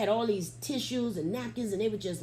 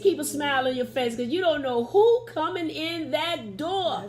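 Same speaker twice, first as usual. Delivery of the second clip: emphatic appeal; 5 semitones higher, 4 dB louder than usual. Real, not acted. Speaker urging church ushers to smile, emphatic appeal. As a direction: press each word home to the ushers.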